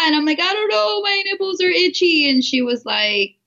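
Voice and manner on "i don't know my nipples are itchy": put-on high-pitched, worried child's answer to mom; retold scared kid. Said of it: "I was so scared".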